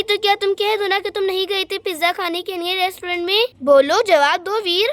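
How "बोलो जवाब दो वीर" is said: slow, loud demand for an answer. Acted. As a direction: press him for the answer. (धीमी, ऊँची आवाज़ में जवाब माँगना)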